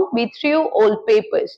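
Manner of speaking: each word drawn out slowly for learners; slow model sentence. Shown as a demonstration. Teacher to students, slow clear model sentence. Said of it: "throw का second form".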